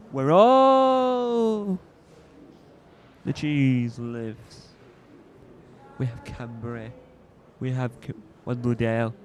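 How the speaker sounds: light hint of Kermit the Frog. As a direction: squeeze it out like a puppet frog. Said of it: "trying to do a Kermit and Frog impression".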